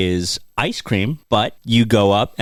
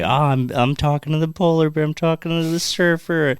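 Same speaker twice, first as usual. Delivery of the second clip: higher-pitched mock wonder; childlike delight; 7 semitones higher than usual. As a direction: marvel like a kid meeting puppets. Voicing delighted inner child.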